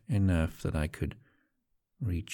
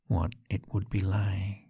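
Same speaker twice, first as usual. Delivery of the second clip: whisper. Acted. Host guiding listener's touch, coaxing whisper. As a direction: urge them on under your breath.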